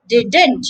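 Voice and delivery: "Didn't" as DID-nt, nasal N at the end; model pronunciation. Shown as a demonstration. Teacher modelling the word, nasal ending. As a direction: end "Didn't" through the nose. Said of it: "add a net sound at the end".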